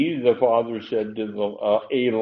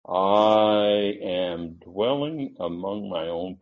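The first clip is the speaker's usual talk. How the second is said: the I in "I am" stretched long and slow; I held long; 5 semitones lower, much slower than usual. Shown as a demonstration. Preacher reading verse, drawing out the I slowly. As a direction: lean long on "I" in "I am dwelling". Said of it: "you heard me hit the I a little long".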